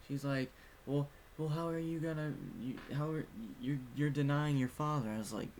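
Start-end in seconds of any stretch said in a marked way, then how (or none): 0.8-5.1 high-pitched huffy retold scolding; mock fit. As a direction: imitate her indignant sputtering. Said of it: "throwing a fit".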